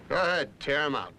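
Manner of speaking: husband raising his voice to dare his wife. Acted. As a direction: push the dare up loud. Husband daring her, building up.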